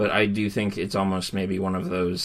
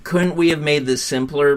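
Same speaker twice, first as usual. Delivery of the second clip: louder, higher exasperated question; exasperated plea; 6 semitones higher, 6 dB louder than usual. Retold or imitated. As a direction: throw up your hands and ask. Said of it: "gut reactions where it's just like".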